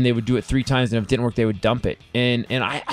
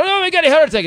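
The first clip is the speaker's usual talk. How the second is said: mock dramatic voice; 5 dB louder, faster than usual. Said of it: "I said".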